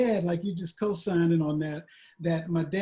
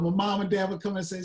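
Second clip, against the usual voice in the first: ordinary delivery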